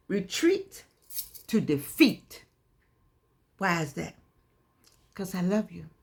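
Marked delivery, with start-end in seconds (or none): 0.1-2.4 said like you mean it. Shown as a demonstration. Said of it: "Say it like you mean it".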